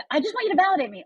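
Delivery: mock whiny friend. Friend voiced again.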